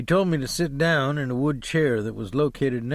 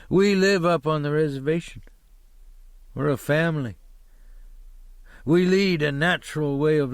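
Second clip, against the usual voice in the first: a hint of defiant pride; proud driver; 3 semitones higher than usual. Driver telling the hitchhiker about their family, mildly defiant.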